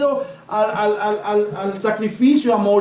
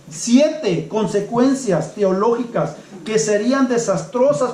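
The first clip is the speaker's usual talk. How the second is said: slower, leaning on siete; slow emphatic repeat. Shown as a demonstration. Preacher repeating the point to the congregation, slow and weighty. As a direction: repeat it slowly so each word lands, stressing siete. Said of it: "él les da siete consecuencias teológicas".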